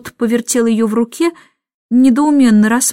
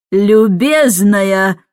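raised voice; 3 dB louder, much slower than usual. Acted. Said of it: "возвысила голос мисс Эндрю".

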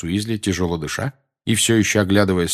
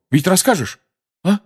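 unsure; 11 semitones higher, 4 dB louder than usual. Acted. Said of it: "неуверенно добавил он".

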